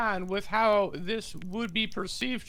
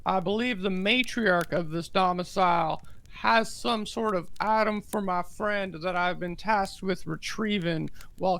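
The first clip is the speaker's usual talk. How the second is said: slow pompous speech. Acted. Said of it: "you talk slow, bud".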